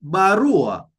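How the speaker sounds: barua, middle syllable RU stressed; stress on second-last syllable. Shown as a demonstration. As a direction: lean on the RU in barua. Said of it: "I'm stressing".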